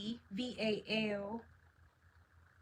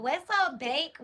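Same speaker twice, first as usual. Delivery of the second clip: excited greeting; 4 semitones higher, 5 dB louder, slower than usual. Real, not acted. Greeting a viewer on live stream.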